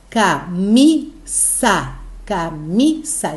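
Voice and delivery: "Camisa" very slowly as ca, mi, sa, weight on mi; slow dictated "Camisa", each syllable apart, strong middle; syllable-by-syllable stress demo. Shown as a demonstration. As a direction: break "Camisa" into three beats, leaning on mi. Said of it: "mi é a sílaba forte".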